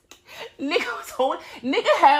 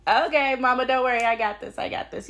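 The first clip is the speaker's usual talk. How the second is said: Miss Kitty's voice; 4 semitones higher than usual. Pretend. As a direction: play a confident little helper telling mama not to worry. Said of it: "She gonna be like".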